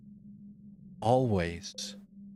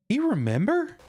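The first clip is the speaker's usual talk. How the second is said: high, louder, urgent question; pleading call; 13 semitones higher, 4 dB louder than usual. Shown as a demonstration. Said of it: "Did he remember?".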